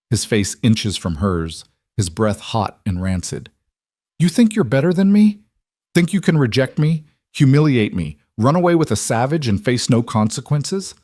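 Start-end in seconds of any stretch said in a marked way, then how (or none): 4.2-10.9 high, loud raging villain; furious rant. Acted. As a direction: rant at her, voice climbing. Villain choking woman, raging.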